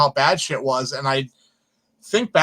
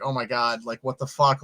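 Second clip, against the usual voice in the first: mortified hushed aside; 5 semitones lower, 7 dB quieter than usual. Retold or imitated. Mortified inside silent screening.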